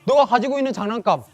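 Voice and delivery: loud, high taunting voice of the world; 유혹하는 세상의 목소리. Acted. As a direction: challenge and scoff, building to loud, high-pitched denial. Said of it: "세상은 우리에게 이제 이렇게 막 속삭이기 시작해요". (크고 높게 비아냥대며 따지는 세상의 목소리)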